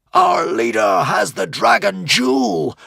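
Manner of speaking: high, loud, slow victory shout; triumphant roar. A narrator's reading. Dragon troops cheering their leader, triumphant roar. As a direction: call it out to the whole army. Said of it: "roared the Dragon Rebellion dragons in triumph".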